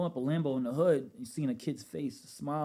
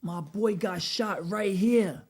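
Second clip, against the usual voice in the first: casual bad news; 6 semitones higher, much slower than usual. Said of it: "He's like".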